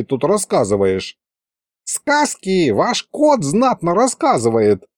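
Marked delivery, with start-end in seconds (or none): 1.8-4.8 perked up. A narrator's reading. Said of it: "оживился колдун".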